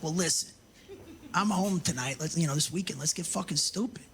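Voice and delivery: low, suave proposition; low and smooth, setting up the night; smooth husband. Retold or imitated. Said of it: "Then I'm like".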